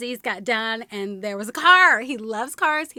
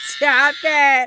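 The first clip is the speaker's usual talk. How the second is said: delighted shout; 10 dB louder than usual. Real, not acted. Laughing at talking bag clip.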